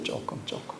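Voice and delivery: 조금, 조금 whispered softly. Shown as a demonstration. Preacher echoing himself, whispered 조금. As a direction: breathe 조금 almost silently.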